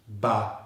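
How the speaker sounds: "ba" as a short, low schwa syllable; B plus schwa. Shown as a demonstration. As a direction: say "ba" with a neutral vowel. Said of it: "It's the B and the schwa sound".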